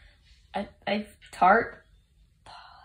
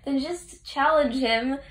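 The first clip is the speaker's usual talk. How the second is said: principal; 5 semitones higher, 3 dB louder than usual. Retold or imitated. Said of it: "the procrastinating principal appears and says".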